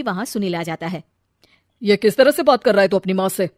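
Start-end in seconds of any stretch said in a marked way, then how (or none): 1.8-3.5 scolding. Acted. Father scolds son.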